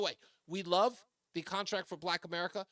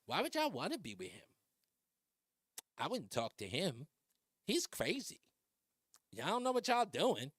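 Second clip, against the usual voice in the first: a light mock of a sassy pundit, softer; CNN pundit impression; 3 dB quieter than usual. Host pokes fun at a CNN pundit's way of talking, mild sassy mock. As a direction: tease a cable host's sassy dismissal, lightly. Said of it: "I'm poking fun at the guy over at, at C N N. That's the way he talks".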